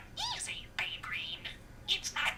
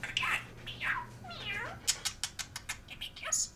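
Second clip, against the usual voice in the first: tiny squeaky budgie voice; chirpy little bird mimicking speech; parakeet chatter; 10 dB quieter than usual. Real, not acted. Budgie Disco playing with phrases.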